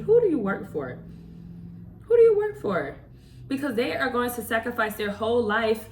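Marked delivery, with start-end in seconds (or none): 0.0-3.0 rising into a loud, high confronting yell; demanding shout. Shown as a demonstration. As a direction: call them out, louder and higher on the repeat. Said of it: "Start asking people around you".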